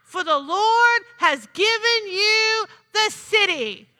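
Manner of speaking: retold battle shout. Preacher retelling the command at Jericho, proclaimed shout. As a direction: call it out, stretching the key words. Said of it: "And then they said, "Shout".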